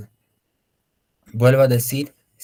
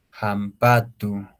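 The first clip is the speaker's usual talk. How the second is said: slow, spelled-out word; much slower than usual. Shown as a demonstration. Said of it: "Con ello se escribe".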